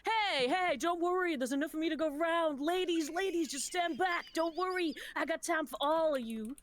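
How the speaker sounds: confident flirty charmer; suave charmer. Acted. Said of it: "Rocky is saying".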